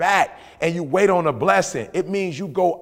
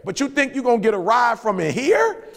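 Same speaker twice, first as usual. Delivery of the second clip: Bob scolding; 6 semitones higher than usual. Retold or imitated. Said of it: "He said".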